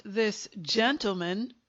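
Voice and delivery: "gentleman" said with deliberate weight; stress on "gentleman". A narrator's reading. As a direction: lean on "gentleman", set slightly apart. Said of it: "he stressed this word".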